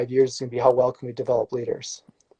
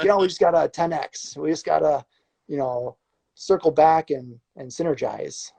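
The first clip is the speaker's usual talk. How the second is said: corporate jargon parody; 3 semitones higher than usual. Retold or imitated. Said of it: "I just don't give the platitude answer".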